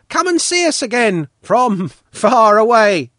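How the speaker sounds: high, loud, friendly send-off; friendly boys calling. A narrator's reading. Boys answering Svetlana as she leaves, calling out in friendly voices. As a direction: call it out like children seeing friends off. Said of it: "now friendly, answered in one voice".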